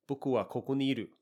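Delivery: flat, matter-of-fact statement without warmth; robotic and dry. Shown as a demonstration. Teacher shows the cold version without yo, dry and robotic. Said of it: "it sounds a bit more robotic, dry".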